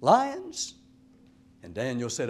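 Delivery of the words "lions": slow, much louder and higher anguished cry into the dark; lamentable voice. Retold or imitated. King hollering down to Daniel at dawn, loud slow lament. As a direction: wail it down the pit, drawn out. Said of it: "he said in a lamentable voice".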